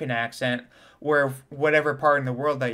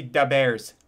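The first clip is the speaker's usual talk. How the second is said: Chicago-style "da" for "the"; Chicago accent; slower than usual. Shown as a demonstration. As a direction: say "The Bears" as "da Bears", like a Chicagoan. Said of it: "Chicago speech impediment".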